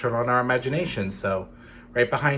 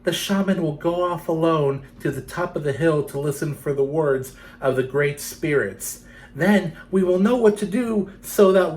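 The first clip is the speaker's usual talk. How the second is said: put-on girl to her doll; 4 semitones higher than usual. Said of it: "She Who Is Alone said to her doll".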